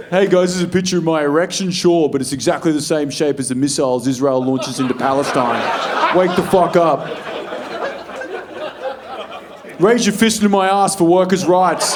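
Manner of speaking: mock activist post. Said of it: "That's what you post".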